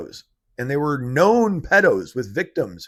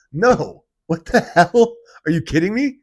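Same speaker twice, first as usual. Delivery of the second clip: outraged; 5 semitones higher, 6 dB louder than usual. Real, not acted. Outraged reaction.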